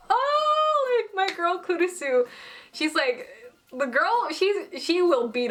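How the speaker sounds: high, drawn-out squeal of admiration; very high fangirl cooing; gushing fan reaction. Retold or imitated. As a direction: squeal with pride for a favourite character. Fan gushing over her favourite character.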